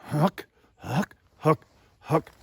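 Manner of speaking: short, separate HOOK syllables in the low inflection. Shown as a demonstration. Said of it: "take that lower voice inflection".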